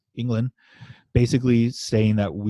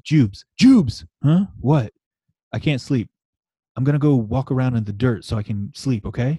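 1 goofy Richter; 4 dB louder than usual. Retold or imitated. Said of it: "this is the funniest".

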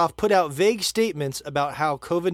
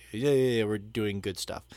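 mocking dismissive; 4 semitones lower than usual. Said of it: "Basically, a nonsense statement".

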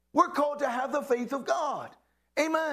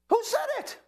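high, loud call to the congregation; preacher calling for an answer; 3 dB louder than usual. Real, not acted. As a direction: ask it out to the crowd. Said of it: "say it with me".

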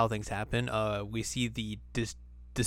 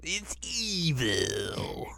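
slow, sinister whisper; evil whisper; 2 semitones higher, much slower than usual. Pretend. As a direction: hiss it like a villain. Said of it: "I like the evil voice".

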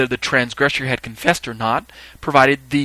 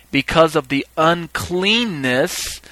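slow, higher stress on "uncleanness"; emphatic reading; 4 semitones higher, much slower than usual. Shown as a demonstration. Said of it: "emphasize the part I want you to see".

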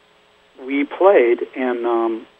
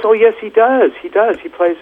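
high, louder imitated insistence; insistent protest; 10 semitones higher, 5 dB louder than usual. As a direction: protest eagerly as the retold cousin. Retold cousin insisting against denial.

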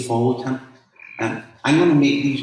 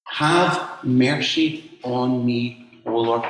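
slow, lingering echo of the plea; slow reflective; slower than usual. Acted. Preacher echoing the woman's cry, slow and reflective. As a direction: let the words sink in, slowly.

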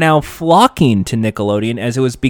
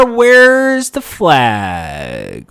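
puzzled host; much slower than usual. Retold or imitated. Host finds empty pillowcase.

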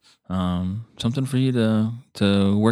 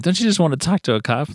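Dave Chappelle bit; 7 semitones higher than usual. Retold or imitated. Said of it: "Dave Chappelle".

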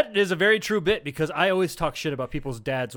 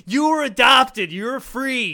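laughing shout; 6 semitones higher, 7 dB louder, slower than usual. Real, not acted. Laughing dad insult.

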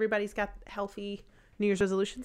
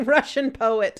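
laughing; 3 semitones higher, 9 dB louder, slower than usual. Real, not acted. Laughing remark.

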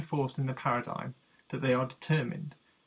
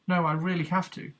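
insistent, raised exclamation, louder and higher; exclaimed; 5 semitones higher, 5 dB louder than usual. A narrator's reading. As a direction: protest it, sure he has no choice. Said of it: "he exclaimed".

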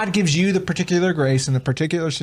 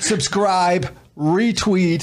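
mock promo read; 3 semitones higher, much slower than usual. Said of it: "He's doing Awakened Nation".

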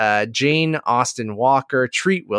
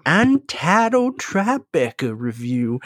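put-on host intro in a mild Texas accent. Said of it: "Matt, is that your Texas accent?".

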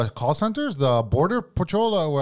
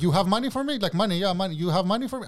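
higher, broken English asking for money; mock greedy foreigner; 4 semitones higher than usual. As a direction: beg for money in a put-on accent. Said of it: "And I switch".

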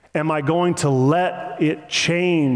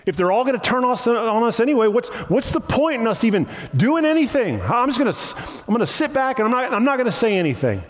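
higher-pitched, hurried giving up; mock bitterness; 5 semitones higher, faster than usual. Preacher voices believers tempted to give up, mock bitterness. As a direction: act out embittered resignation. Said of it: "bitterness and anger".

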